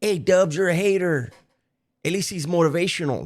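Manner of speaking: mocking a fan. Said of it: "people really".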